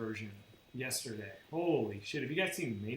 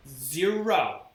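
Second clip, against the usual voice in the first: imitating condescending witness; 3 semitones higher, 6 dB louder, slower than usual. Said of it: "the way she speaks is infuriating".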